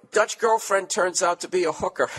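reading the line through a burst of laughter; can't hold back the laugh while reading. Real, not acted. Host reads shocking email subject.

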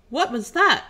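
loud, doubled processed voices; two characters speaking together through a modulator; two voices at once. Acted. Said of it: "Roby and Malkonis in concert".

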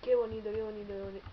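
loud delighted qué bonito; excited admiring. Real, not acted. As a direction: gush over the portal. Admiring the portal.

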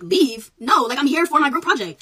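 student retelling how she refused to leave, indignant; retold indignant protest. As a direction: replay her own outraged refusal. Student retells her own protest.

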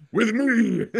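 short put-on character line; lightly voiced game character; character voice cameo. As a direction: drop in a quick background character line.

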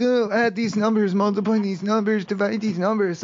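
mock math teacher reciting orders. Mocking teachers in math class.

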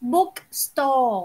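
BOOKSTORE ending on an open "aw", no N; corrective pronunciation. Shown as a demonstration. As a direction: say "bookstore" without a nasal N at the end. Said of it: "ไม่มีเสียงนอหนูนะลูก ไม่มีเสียงเหน่อนะคะ".

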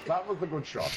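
calmer, level, honest praise; sincere. Real, not acted. Admitting to a teammate that the shot was good, sincerely. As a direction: say it again, meaning it. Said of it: "I'll be honest".

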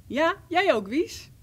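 put-on loud, high call to a child; mother calling out to the second child; roepende moeder. A narrator's reading. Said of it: "En moeder riep". (luid roepende moeder)

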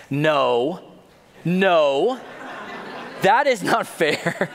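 put-on a teenager caught out, complaining; teen whining protest. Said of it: "I was like".

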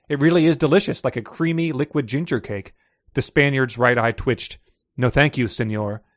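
measured audiobook-style reading; story narration. A narrator's reading. Host reads a thriller excerpt to co-host, story narration.

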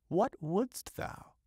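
high, slow crone voice; witch voice. Acted. Witch asking the fisherman what he wants, high and slow. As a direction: stretch it out like a sly witch.

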